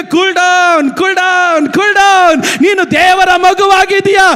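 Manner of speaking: rising to a loud preached urging; building firm calm-down. Retold or imitated. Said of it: "ಪವಿತ್ರಾತ್ಮನ ಹೇಳ್ತಾನೆ".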